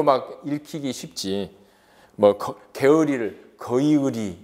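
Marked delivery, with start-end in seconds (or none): 3.6-4.4 거의의리 sounded out vowel by vowel, ko-i-ui-ri; 거의의리 with each diphthong spelled out; old diphthong reading. Shown as a demonstration. Teacher reads the Middle Korean form for students, each vowel sounded out. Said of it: "이렇게 하기는 좀 어려워요".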